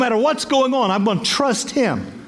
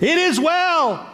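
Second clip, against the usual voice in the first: "It is well" slow and lifted, each word weighed; serene insistence; 7 semitones higher, slower than usual. Retold or imitated. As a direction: say "It is well" slowly, calm and firm. Refrain to doubters.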